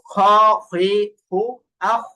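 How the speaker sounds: "খ, হুই, হু, আহ" rounded, with flowing breath; soft heavy kha. Shown as a demonstration. Teacher sums up three qualities, heavy airy kha demo. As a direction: space out the airy kh syllables. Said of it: "মোটা করা আর বাতাস চালু রাখা".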